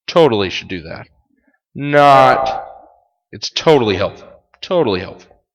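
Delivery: mock-earnest advice with heavy irony; sarcastic. Shown as a demonstration. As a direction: drop the pitch at phrase ends, dryly sarcastic. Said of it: "that is an example of sarcasm from me".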